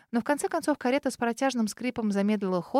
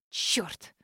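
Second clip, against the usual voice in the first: hissed under the breath, much softer; muttered curse; 4 semitones lower, 7 dB quieter than usual. Acted. Girl curses under her breath, hushed. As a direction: swear to yourself after the door shuts. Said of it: "выругалась я".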